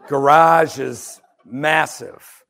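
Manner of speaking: slow, laughing through the words. Real, not acted. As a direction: laugh as you stretch it out. Laughing at the huge garage.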